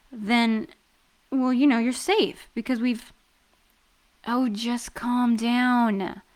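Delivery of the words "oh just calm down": soothing. Acted. Soothing the nervous partner.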